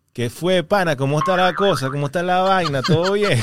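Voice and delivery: lightly imitated foreigner's Venezuelan; a hint of stock Venezuelan greeting; Venezuelan accent. Acting foreigners asked to speak Venezuelan, mock Venezuelan accent. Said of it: "Mira, habla venezolano ahí".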